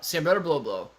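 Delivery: "Sambretta blow blow" run together quickly; quick version. Shown as a demonstration. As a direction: rattle "Sambretta blow blow" off in one go. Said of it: "try to say it really fast".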